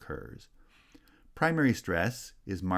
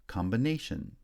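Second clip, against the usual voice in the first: main stress on "na" in "combination"; "combination", lighter first stress, strong third syllable; third-syllable primary stress; 3 semitones higher than usual. Shown as a demonstration. Teacher showing stress shift, third syllable strongest in "combination". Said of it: "shifted to the third syllable in combination".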